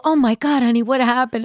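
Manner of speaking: high loud horrified gasp; a fussing makeup artist; shocked makeup artist. Retold or imitated. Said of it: "they go".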